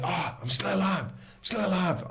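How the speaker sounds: high, elated cry of being alive; pumped-up relief. Retold or imitated. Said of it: "I was so pumped up".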